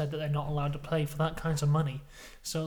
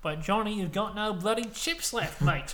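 higher mock Australian voice; Australian Prime Minister; 5 semitones higher than usual. Prime Minister turning down broke Johnny, mock Australian voice. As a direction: play a blunt Australian, pitched up. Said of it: "And the Australian Prime Minister goes".

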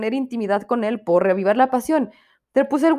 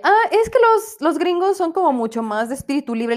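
friend's excuse; 6 semitones higher than usual. Retold or imitated. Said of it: "Y ella".

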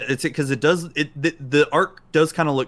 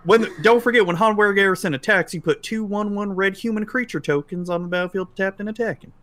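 Texas twang; 9 semitones higher, 4 dB louder than usual. Pretend. Teasing co-host in a rowdy Texas voice. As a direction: play the card like a rowdy Texan. Mock Texan card player.

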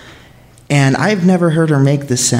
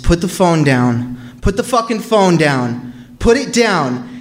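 mild mock yell; 4 semitones higher than usual. Intruders yell at grandma to drop the phone, mild mock yell. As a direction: imitate the panicked order without real volume. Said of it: "they were just shouting at her".

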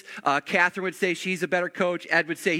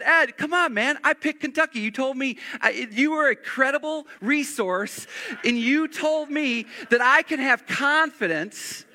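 mock complaint; 5 semitones higher than usual. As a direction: play the wronged friend, half joking. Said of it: "and I said".

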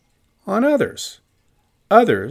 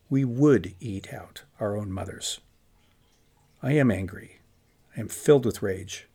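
imagined Pharisee's inner voice; 4 semitones lower than usual. Acted. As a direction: think aloud to yourself as a troubled Pharisee, pitched lower. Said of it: "some may have had this introspective".

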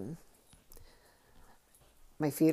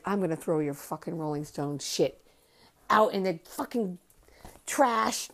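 mock furious aunt, rising to a shout on trash; retold angry aunt; 2 semitones higher than usual. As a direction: imitate the aunt building from gripe to shout. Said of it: "so pissed".

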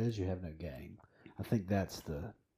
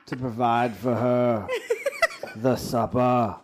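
slow, louder and higher, laughing; grand knight voice; 3 semitones higher, 7 dB louder than usual. Retold or imitated. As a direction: proclaim it like a gallant knight. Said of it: "this is how he walks into the house".

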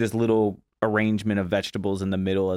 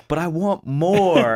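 laughing judge; 8 semitones higher, 5 dB louder, slower than usual. Retold or imitated. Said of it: "he was like".

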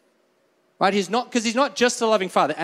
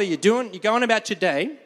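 usual speaking voice

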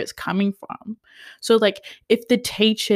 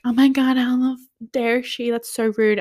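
higher-pitched imitation of indignation; mock huffy; 4 semitones higher than usual. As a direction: imitate someone storming off offended. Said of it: "runs off in a huff".

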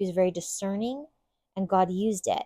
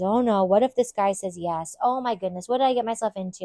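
fretful worry; 4 dB louder than usual. Retold or imitated. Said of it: "I imagine Ruth had some fears".

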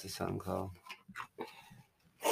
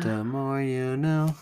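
PSA announcer; 5 semitones higher, 4 dB louder, slower than usual. Pretend. PSA catchphrase quoted.

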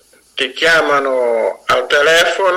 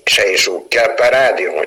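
repeating and fading like an echo; digital echo; 2 semitones lower than usual. Pretend. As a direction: let each repeat die away. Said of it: "che fate effetto eco questo?". (effetto eco che sfuma)

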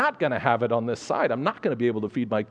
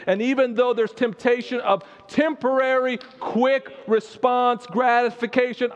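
fervent prayer; 7 semitones higher than usual. Acted. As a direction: pray with rising passion, voice lifting high. Fervent prayer rising to a cry.

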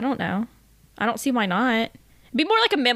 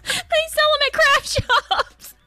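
much higher, slow, through hard laughter; laughing hysterically; 13 semitones higher, 3 dB louder, much slower than usual. Real, not acted. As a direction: squeak the words out laughing.

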